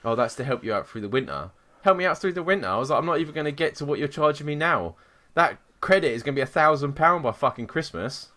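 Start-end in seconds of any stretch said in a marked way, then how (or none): 1.8-2.7 high-pitched, indignant repeat; incredulous echo. Retold or imitated. Customer retelling her comeback to the energy agent, incredulous. 3.0-8.3 raised pitch, exasperated retelling; indignant protest. Retold or imitated. Customer retelling her row over monthly charges, indignant.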